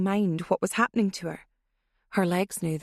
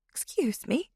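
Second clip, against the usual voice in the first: stunned breathless whisper, pitched up; shocked whisper; 6 semitones higher than usual. Acted. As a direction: gasp it out in disbelief. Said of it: "came out as a croak or a squeak".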